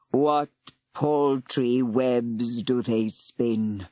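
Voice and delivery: very slow, vast serpent voice; ancient serpent. Acted. Serpent addressing the tiny humans, slow and vast. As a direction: speak like an old god.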